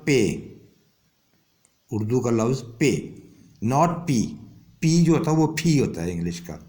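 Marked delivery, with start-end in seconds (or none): 2.8-3.0 پے with no puff of air; thin, unaspirated P. Shown as a demonstration. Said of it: "باریک پے". 5.6-5.8 پھی with a puff of air; breathy English p at the start of پھی; English aspirated P. Shown as a demonstration. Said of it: "انگریز اس کو پھی پڑھتے ہیں".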